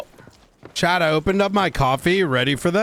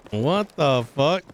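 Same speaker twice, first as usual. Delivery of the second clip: disbelieving; slower than usual. Real, not acted. Discovers spilled coffee.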